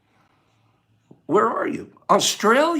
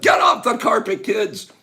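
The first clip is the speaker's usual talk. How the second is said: playful scolding; 4 semitones higher than usual. Pretend. Mock scolding kids.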